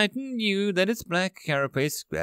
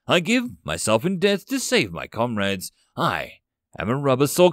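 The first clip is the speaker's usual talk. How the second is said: building scream; 4 dB louder than usual. Acted. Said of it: "he screamed".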